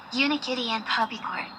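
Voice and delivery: talking through hiccups; hiccuping between words. Acted. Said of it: "got the hiccups out of, hick, nowhere".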